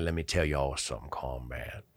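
low, soft, whispered ending; Johnny Riley voice. Retold or imitated. Sergeant Major addressing the troops, low and hushed. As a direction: let the last word fade into a low whisper.

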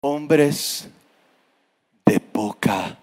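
Hombres de poca breathed in a soft whisper; wrong soft take. Shown as a demonstration. Preacher shows how Jesus did not say it, in a whisper. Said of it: "no les dijo que poca".

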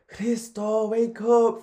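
a mum shouting to wake him up; mum calling out. Retold or imitated. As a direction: call out across the corridor. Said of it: "So my mum will be like".

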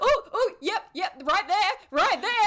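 high, breathy mock massage moans; moaning with relief. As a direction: ham up the relief. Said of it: "he's like".

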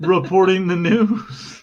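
mock newsreader sign-on; news reporter. Host playing reporter to his co-host, newsreader voice. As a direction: deliver it like a TV anchor. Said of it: "recording the news, and I'm like".

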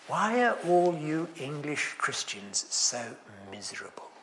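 slow, sinking to a whisper on the last word; hushed question. Retold or imitated. Telling the congregation the visitors' blunt question, slowly hushed. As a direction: let the question fade to a breath at the end.

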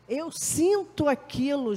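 ordinary talk

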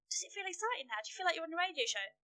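retold hype, lifted in pitch; trying to excite her. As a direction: hype up your nervous guest, half in play. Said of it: "get her all excited".

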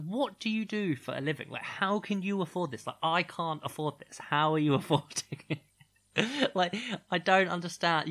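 high, emphatic mock disbelief; baffled how they can pay for it; incredulous questioning. Acting out incredulous reaction to others.

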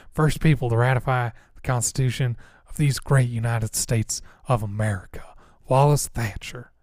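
lightly voiced old Southern politician; a hint of stump-speech grandeur, slowing on the name; old political type. Boomer politician introducing himself, old political type voice. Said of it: "old political type voices".

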